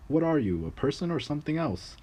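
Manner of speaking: high, sneering lord taunting the servant; mocking lord. Lord mocking the little servant before the serfs, high sneering voice. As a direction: poke fun at him before everyone. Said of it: "the lord asked the little man".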